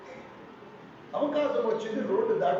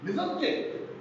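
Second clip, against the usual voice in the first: prayer voice. Shown as a demonstration. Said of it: "మనం ఏమని ప్రార్థన చేయాలంటే".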